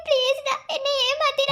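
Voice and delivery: begging while crying; sobbing plea; tearful pleading. Acted. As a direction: plead with him through sobs. Begging him through tears.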